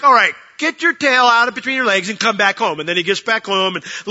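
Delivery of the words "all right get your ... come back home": loud, high-pitched public telling-off; mock scolding. God as he isn't, embarrassing Elijah, mock scolding. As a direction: shame him loudly in front of everyone.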